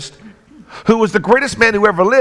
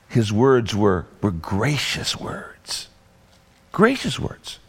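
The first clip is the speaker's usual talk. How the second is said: slow soft hush; 9 semitones lower, 6 dB quieter, slower than usual. Real, not acted.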